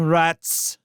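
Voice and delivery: rats! flung out loud with a falling end; harsh spat insult. Acted. Constance dismissing the rats, harsh falling insult. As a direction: bite off rats! with a downward snap. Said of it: "reply was harsh and unafraid".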